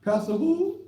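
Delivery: high incredulous jab; "Pastor who?" scoffing at a caller; scoffing at the caller who claims to be a pastor; mock disbelief. Real, not acted. Mocking a caller's claimed title.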